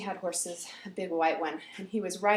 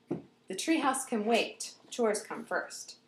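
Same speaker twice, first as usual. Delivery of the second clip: firm mom; much slower than usual. Retold or imitated. Mom laying down rules.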